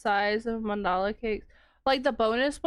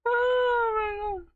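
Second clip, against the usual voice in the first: laughing oh my god; 11 semitones higher, slower than usual. Real, not acted. Laughing reaction.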